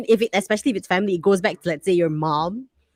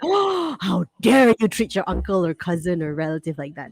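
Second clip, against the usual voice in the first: mock outrage. Family elder scolding someone for charging relatives, mock outraged.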